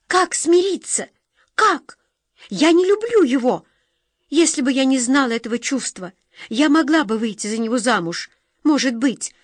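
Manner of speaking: high, loud, tearful outburst; the girl breaks, crying out loud; bursting out. A narrator's reading. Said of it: "И тут девушку прорвало".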